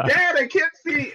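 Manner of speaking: put-on very high, slow little-kid voice; toddler voice. Dad imitating his toddler faking blindness, high kid voice. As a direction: play the giggling toddler pretending to be blind. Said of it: "He's like".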